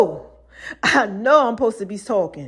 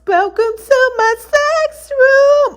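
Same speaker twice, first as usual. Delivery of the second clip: high, slow, teasing come-on; mock seductive; 13 semitones higher, much slower than usual. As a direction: draw it out like a playful tease. Retelling her seductive lines to him.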